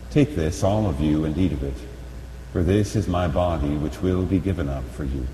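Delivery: ordinary talk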